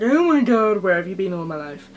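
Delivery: loud gushing "oh my god", easing off quickly; retold delighted exclamation. Vlogger retells rediscovering a palette, in mock-dramatic delight. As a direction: burst out, then rush the question. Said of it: "and I was like".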